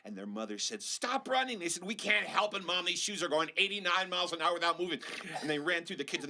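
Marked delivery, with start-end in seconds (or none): 0.8-1.6 scolding mom. Acted. 1.8-5.0 put-on excited kids.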